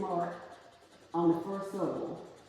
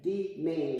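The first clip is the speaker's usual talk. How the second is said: "Demand" with voice raised on MAND; stress on second syllable. Shown as a demonstration. Teacher confirming student's reading, "Demand" stressed on MAND. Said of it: "the voice raised on that second, uh, syllable".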